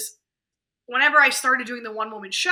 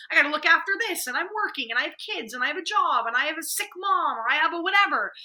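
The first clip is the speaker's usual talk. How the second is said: higher-pitched list of excuses; mock harried complaining; 4 semitones higher than usual. Busy people explaining why they have no time, mock harried complaint. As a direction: pile up the excuses in an exasperated imitation.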